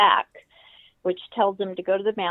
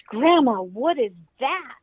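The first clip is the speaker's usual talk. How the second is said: put-on startled child; 4 semitones higher, 6 dB louder than usual. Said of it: "that startled her".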